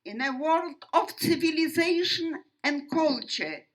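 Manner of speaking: emphatic, measured oratory with weighty pauses; formal testimony speech. Real, not acted. Survivor addressing an audience about the Holocaust, formal and emphatic. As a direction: declaim it firmly, phrase by phrase. Delivers prepared opening of testimony.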